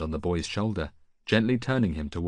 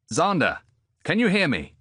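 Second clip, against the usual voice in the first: higher and louder, reaching through the mist; calling out; 10 semitones higher, 6 dB louder than usual. Acted. Odysseus calls to the feverish boy, raised and loud. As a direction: call to him to wake him.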